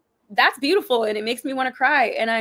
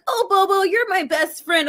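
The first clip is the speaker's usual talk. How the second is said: higher, slow, tearful tender voice; boy to his dog; 10 semitones higher, 4 dB louder than usual. Retold or imitated. Retelling a movie boy talking to his dog, tearful and slow. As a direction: gush to a beloved dog. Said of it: "pet his dog and be like".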